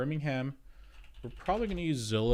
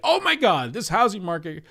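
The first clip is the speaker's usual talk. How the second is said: much higher, louder, hammed-up outburst; mock dramatic gasp; 9 semitones higher, 7 dB louder than usual. Imitating a dramatic reaction to the housing market, hammed-up. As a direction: overplay the shock like a drama channel. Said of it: "I just like".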